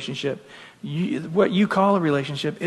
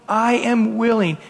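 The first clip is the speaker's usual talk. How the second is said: crying out; 4 semitones higher than usual. Retold or imitated. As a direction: call it out earnestly. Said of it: "he is crying out and saying".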